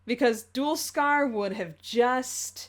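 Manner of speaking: slow, drawn-out lead-in to a pun; teasing build-up. Acted. Setting up a pun for the co-host, slow teasing build-up. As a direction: stretch it out to tease.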